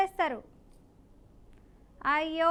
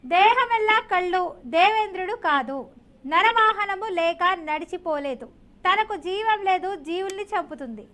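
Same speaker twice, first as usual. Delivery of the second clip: slow, deliberate riddle reading; riddle read aloud; 3 dB louder, slower than usual. Acted. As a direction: pose the riddle line by line, measured. Host reads riddle to caller.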